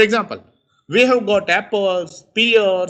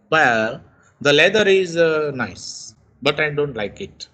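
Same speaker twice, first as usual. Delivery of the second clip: hesitant reply; 2 semitones lower than usual. Shown as a demonstration. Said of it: "The speaker is hesitated to express his thoughts".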